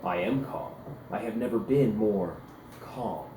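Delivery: low, controlled, deliberately calm; a warrior forcing himself to sound serene; insisting he's calm. Acted.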